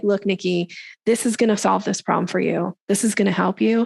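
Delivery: assured, level statements, falling at the ends; credible expert. Acted. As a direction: state it as the expert who has the answer. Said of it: "speaking from that place of credibility".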